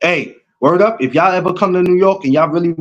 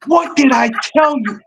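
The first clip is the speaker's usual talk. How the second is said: high, gloating what did I tell you; triumphant teasing told-you-so; 9 semitones higher than usual. Real, not acted. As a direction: crow that you were right. Gloating over being right.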